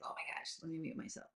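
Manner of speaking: breathy under-the-breath aside; hushed whisper. Retold or imitated. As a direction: murmur it to yourself in a near whisper. Retold thought about muting herself.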